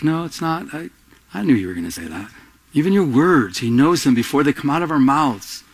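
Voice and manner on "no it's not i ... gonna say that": God answering. Retold or imitated. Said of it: "And God's like".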